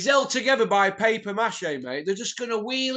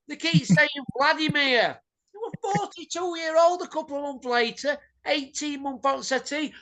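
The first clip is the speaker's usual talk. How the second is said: rant; 4 semitones higher than usual. Real, not acted. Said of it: "Sorry about the rant".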